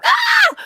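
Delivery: short scream that jumps very high; retold startled scream. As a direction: relive the fright with one high scream. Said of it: "I screamed".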